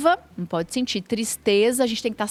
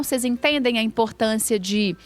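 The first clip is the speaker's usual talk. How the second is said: ordinary talk, nothing marked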